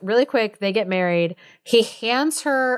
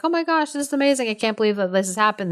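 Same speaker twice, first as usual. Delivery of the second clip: tag; 3 semitones higher, much faster than usual. Retold or imitated. Court reacts to the king's cure.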